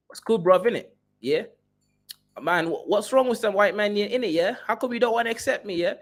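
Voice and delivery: high, put-on London slang accent; mocking a Kenyan who moved to the UK, in a London accent; London roadman accent. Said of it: "let me put on a, uh, Kaizoran accent".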